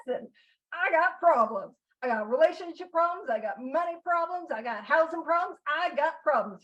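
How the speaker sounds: mild mock plea, piling up complaints; mock complaining newcomer. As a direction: reel off troubles like an overwhelmed newcomer. Acts out self as troubled newcomer.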